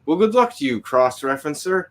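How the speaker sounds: high, loud, gloating mock farewell; mocking send-off. Teasing the coworker who ignored the warning, high and gloating. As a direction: rub it in with a teasing sing-song. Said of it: "I was like".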